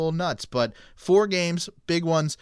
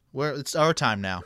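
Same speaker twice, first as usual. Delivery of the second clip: light mock Canadian accent; playful Canadian accent on our. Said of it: "That was a good Canadian accent".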